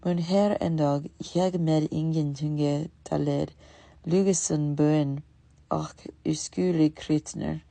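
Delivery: loud, slow pleading in Danish-sounding words; a beggar pleads with Pantagruel in Danish, loudly; pleading in mock Danish. A narrator's reading. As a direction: beg for food in pseudo-Danish, slowly. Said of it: "in Danish".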